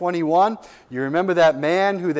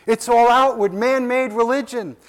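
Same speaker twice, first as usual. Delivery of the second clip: preaching climax; 7 semitones higher than usual. Real, not acted. Preacher denouncing dead religion.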